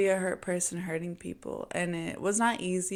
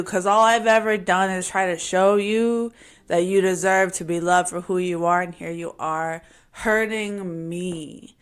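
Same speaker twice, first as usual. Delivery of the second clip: retold angry outburst; 6 dB louder than usual. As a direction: throw it at them like you're done.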